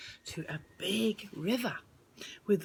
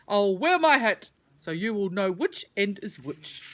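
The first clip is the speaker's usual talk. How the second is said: worm voice; 5 dB louder than usual. Acted. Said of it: "said Mudwiggle".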